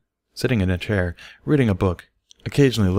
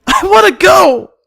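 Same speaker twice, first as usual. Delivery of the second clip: screeching, much higher and louder, slow; high-pitched wail; 11 dB louder, slower than usual. A narrator's reading. Upset filly wailing to leave class, screeching. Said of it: "Dinky wailed, her voice a high-pitched screech".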